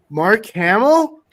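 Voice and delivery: loud, high-pitched incredulous questions, first one drawn out; floored, voice shooting up; shocked disbelief. Retold or imitated. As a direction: retell your stunned discovery at full volume. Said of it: "completely shocked".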